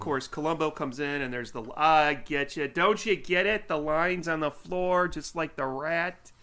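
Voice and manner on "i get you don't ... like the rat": louder, insistent movie-villain rant, a little hammed-up; mock intense rant. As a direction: push the rat-maze idea on him like a revelation. Quoting Collier's rant about rats.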